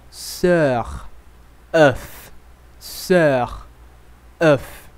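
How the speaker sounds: "sœur" with rounded lips on the œ; "œuf" with a rounded French vowel. Shown as a demonstration. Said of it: "E o som ficaria assim".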